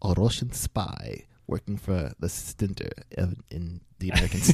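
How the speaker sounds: slow, lightly put-on Russian accent; a slow Russian accent that slips away; Russian spy accent. Host introducing himself as a spy, slow mock Russian accent. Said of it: "That accent broke down".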